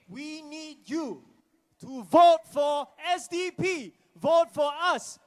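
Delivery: urgent appeal. Real, not acted. Urging votes at rally.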